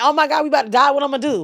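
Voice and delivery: play-acted high, frightened, panicky babbling. Retelling seeing a car get jacked: imitating own scared voice. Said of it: "I'm scared".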